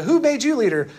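high, laughing challenge; mock a rival who made himself leader, laughing; laughing movie quote. Preacher retelling a movie quarrel, laughing and high. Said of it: "And they go".

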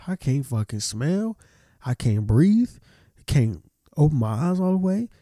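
worked-up, fed-up griping; pissed off. Real, not acted. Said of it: "another thing I'm pissed off about".

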